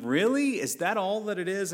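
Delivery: put-on disbelieving parent to a crying kid; incredulous parent. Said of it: "And you're going".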